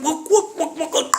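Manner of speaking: high, laughing whoops; excited whooping. Acted. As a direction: whoop with glee as he trains. He whoops while training.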